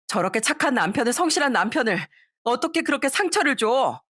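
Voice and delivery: mild mock outburst at her mother; angry wife. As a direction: daughter scolding her selfish mother.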